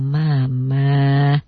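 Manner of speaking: gentle. Shown as a demonstration. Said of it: "Iramanya begitu".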